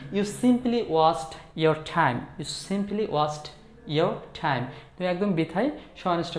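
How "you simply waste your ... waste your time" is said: slow model phrase. Shown as a demonstration. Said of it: "তাহলে কি বলতে পারি".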